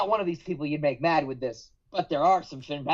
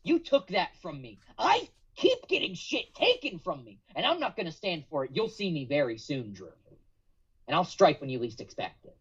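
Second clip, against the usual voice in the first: angry Finn promo. Acted. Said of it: "and he's pissed".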